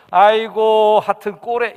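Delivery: scornful wife. Retold or imitated. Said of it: "이렇게 얘기하면은 그거 큰일 납니다".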